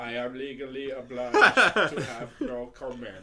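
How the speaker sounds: stiff, mechanical monotone; robot voice. Acted. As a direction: speak like a robot. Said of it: "And must speak like a robot".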